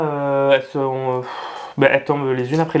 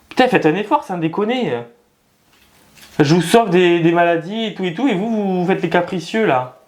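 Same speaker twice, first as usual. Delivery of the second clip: mock scolding plants; 4 semitones higher than usual. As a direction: pitch up, half-joking scold of the plants. Scolds his dropping plants. (engueulade pour rire de ses plantes, voix plus aiguë)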